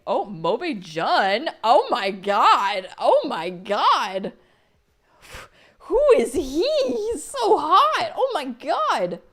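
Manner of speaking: loud, slow, high squeals; fangirl screaming. Real, not acted. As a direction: scream with delight over art. Fangirling over character art.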